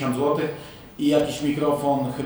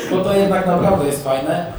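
still laughing; 4 semitones higher, 6 dB louder than usual. Real, not acted.

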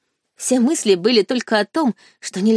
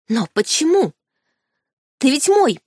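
desperate protest; 6 semitones higher than usual. Acted.

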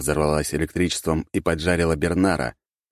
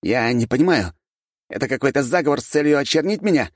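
prince voice; 9 semitones higher, 3 dB louder than usual. A narrator's reading. Prince protests accusation.

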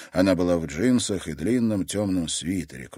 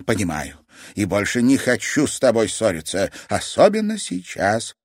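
strange longing; 4 semitones higher, 5 dB louder than usual. Acted. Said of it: "со странной тоской в голосе".

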